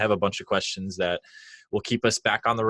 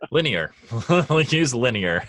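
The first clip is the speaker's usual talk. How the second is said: amused, higher-pitched answer broken by laughter; laughing; 5 semitones higher, 4 dB louder than usual. Real, not acted. Host answers guest's hunt for a friendlier word, laughing. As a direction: chuckle as you offer the word.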